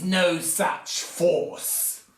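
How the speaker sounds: slow, lightly voiced sly counselor; drawn out, pausing on is; Grima quote. Grima telling Saruman, mock sly slow. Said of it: "and Grima says".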